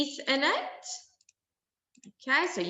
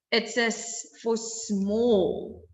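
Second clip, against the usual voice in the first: slow teaching emphasis; slower than usual. Shown as a demonstration. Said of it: "repeated teaching phrase".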